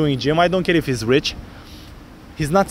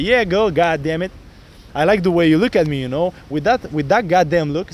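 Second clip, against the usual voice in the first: bold flirty demo. Shown as a demonstration. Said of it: "then I'm gonna be like".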